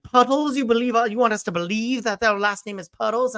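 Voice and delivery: high, loud put-on Southern questioning; Arthur's mock Southern accent. Arthur challenging Gary's last name, mock Southern accent. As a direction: play up a Southern courtroom accent in disbelief. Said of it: "putting on this Southern accent".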